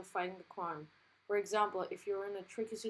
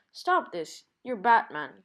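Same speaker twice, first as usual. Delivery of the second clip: mock scolding Wonder Woman; 10 dB louder, slower than usual.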